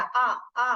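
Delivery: "आ" said as a long open vowel; vowel sound demo. Shown as a demonstration. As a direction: hold the आ sound. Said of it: "आ sound आ रहा है". (लंबा खुला "आ")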